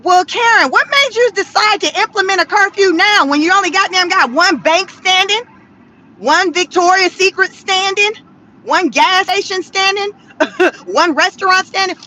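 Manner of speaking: sass the official about the late curfew; sarcastic grilling. Pretend.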